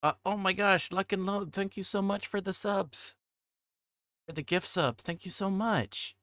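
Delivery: high, bright gushing thanks; excited thanks. Real, not acted. Streamer thanking chat for gift subs, high excited thanks. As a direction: gush your thanks way up high.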